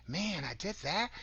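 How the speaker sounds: mild disbelief, rising at the end; surprised. Shown as a demonstration. Speaker showing how people doubt their achievements, surprised. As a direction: turn it into a surprised question. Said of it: "express them with surprise".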